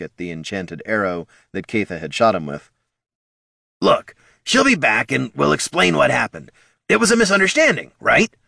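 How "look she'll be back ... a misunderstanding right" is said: high, louder kobold, unsure; nervous kobold reassuring. A narrator's reading. Bert comforting wounded Thane, nervously. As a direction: reassure the troll, not believing it.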